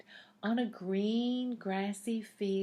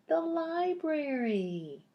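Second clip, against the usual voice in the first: higher and louder, a bright big answer; excited reveal; 9 semitones higher, 6 dB louder than usual. Acted. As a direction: announce it like a happy surprise. Reveals answer to young listeners.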